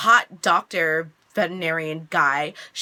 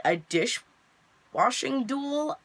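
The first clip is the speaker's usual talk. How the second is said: slow, drawn-out, higher mock disbelief; incredulous question; 5 semitones higher, much slower than usual. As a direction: stretch it out as if baffled. Retold incredulous reply to challenge.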